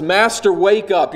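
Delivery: high, urgent cry; panicked. Acted. Disciples waking Jesus as the boat sinks, panicked. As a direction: pitch it up and call urgently to a sleeper. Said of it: "they're in a panic".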